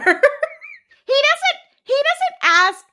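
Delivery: cracking up mid-sentence; laughing. Real, not acted. Laughing while recapping the scene.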